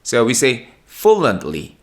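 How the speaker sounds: "fluently" as "플런리" with a light "li"; native fluently. Shown as a demonstration. Teacher slowly models how natives say fluently. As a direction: glide through "fluently". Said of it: "이렇게 발음이 돼요".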